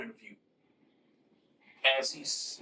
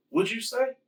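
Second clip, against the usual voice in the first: surprised; 7 semitones higher than usual. Retold or imitated. Sonya hears Jax answer.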